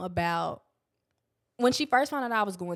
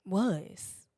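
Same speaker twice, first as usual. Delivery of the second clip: whispered. Real, not acted. Dramatic close of a point.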